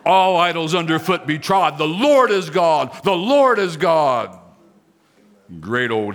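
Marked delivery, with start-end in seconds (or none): 0.0-1.8 stamp the idols down with your voice; Pentecostal stomp. Shown as a demonstration. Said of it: "A little Pentecostal in me right there". 1.8-4.4 louder, stomping proclamation; Pentecostal stomp. Shown as a demonstration. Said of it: "A little Pentecostal in me right there".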